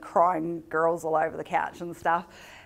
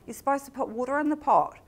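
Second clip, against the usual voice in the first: higher, sharp lecturing tone; exasperated scolding; 8 semitones higher, 3 dB louder, faster than usual. Retold or imitated. To the girl who burnt the pumpkin, exasperated scolding. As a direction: scold her like it's obvious.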